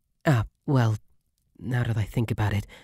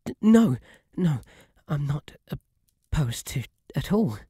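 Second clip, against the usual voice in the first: much higher and louder startled protest; flustered outburst; 4 semitones higher, 4 dB louder than usual. Acted. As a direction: blurt it out in a panic. Flustered denial of being opposed.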